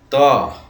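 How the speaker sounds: ᱛᱚ sounded out clearly for learners; pronunciation demo. Shown as a demonstration. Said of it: "ᱩᱪᱪᱟᱨᱚᱱ ᱫᱚ ᱦᱩᱭᱩᱜᱼᱟ".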